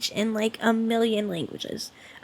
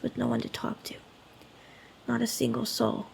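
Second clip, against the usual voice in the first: lonely; 2 semitones lower, 9 dB quieter than usual. Acted. Confesses long loneliness to the visitor.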